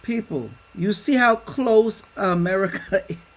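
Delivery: a real laugh breaks in mid-question; can't hold back a laugh; real laugh cutting into the line. Real, not acted. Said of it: "I don't mean to laugh".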